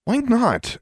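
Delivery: high, indignant demand. A narrator's reading. Anna to the granny refusing her, demanding. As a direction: challenge it, pitched right up. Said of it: "Anna demanded".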